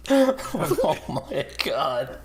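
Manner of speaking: slow, laughing oh my God. Real, not acted. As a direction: laugh through the words. Laughing at losing Slot.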